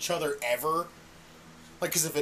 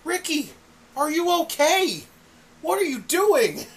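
high, raised disbelief; baffled; 9 semitones higher, 5 dB louder than usual. Retold or imitated. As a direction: ask him what's wrong, incredulous. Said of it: "And I'm like".

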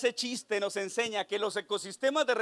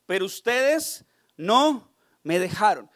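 lament; 6 dB louder, slower than usual. Acted. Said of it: "Jesús expresó".

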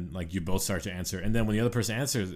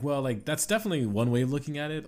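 diplomatic politeness; 6 semitones higher, faster than usual. Retold or imitated. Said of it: "you have to be like".

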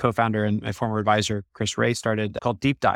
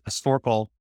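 nasal voice; slower than usual. Retold or imitated. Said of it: "in an incredibly nasal voice".

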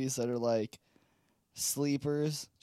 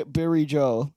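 mock Asian accent; 2 semitones lower, 3 dB louder than usual. Echoing the mock-accent name.

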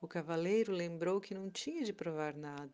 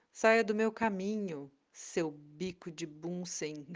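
loud commanding shout, slowing at the end; authoritative shout; 6 dB louder, slower than usual. Acted. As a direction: bark the order with all the authority you can. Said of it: "Com a voz autoritária mais forte e alta que conseguia fazer, ele gritou". (grito autoritário e forte)

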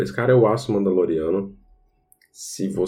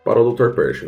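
German accent; faster than usual. Shown as a demonstration. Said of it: "Eu tô tentando falar com sotaque alemão".

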